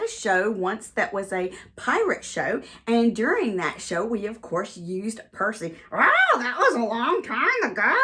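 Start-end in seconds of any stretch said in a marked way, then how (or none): 5.9-7.9 high squawky bird voice; perky puppet parrot. Acted. Parrot puppet Percy speaking.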